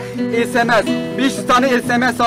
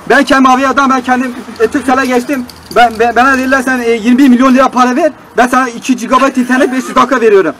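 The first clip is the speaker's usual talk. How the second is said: angry complaint; 5 dB louder than usual. Acted. Customer shouts complaint at operator.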